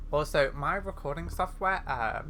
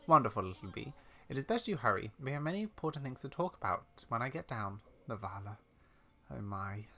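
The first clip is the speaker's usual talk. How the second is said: put-on old lady character. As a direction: hurry them along, then sink into worry.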